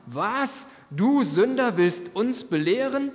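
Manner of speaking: high, indignant read-aloud shout, slowed; angry outburst. A narrator's reading. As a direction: pharisees flaring up at the man's lecture. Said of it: "Wütend schrien sie ihn an".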